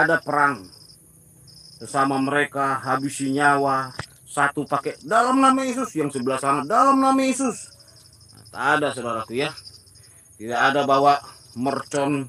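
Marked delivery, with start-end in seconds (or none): 5.0-5.9 mock battle cry. Mocking fighters' religious cry. 6.6-7.7 mock battle cry. Mocking fighters' religious cry.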